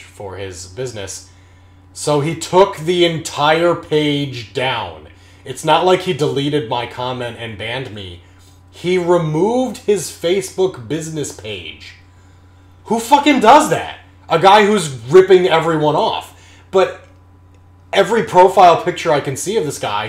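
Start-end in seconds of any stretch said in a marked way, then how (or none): 1.9-11.9 rising anger. Real, not acted. Building rant about scammer contractor. 12.8-17.1 loud, high furious yelling; furious shout. Real, not acted. Rant about contractor who ripped him off. 17.9-20.1 loud, fast indignant ranting; heated rant. Real, not acted. Ranting about contractor.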